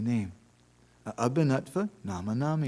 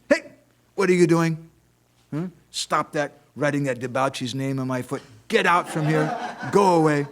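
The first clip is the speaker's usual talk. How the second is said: loud, raised-pitch scolding; acted angry outburst; 4 semitones higher, 6 dB louder than usual. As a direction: shout them away in mock outrage. Acted outrage at name on foot.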